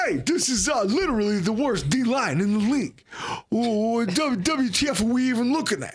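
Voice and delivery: hammed-up Italian-American accent, lightly done; bad Italian accent. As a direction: read the tweet in a cartoonish Italian accent. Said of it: "Now I'm reading this in an Italian accent".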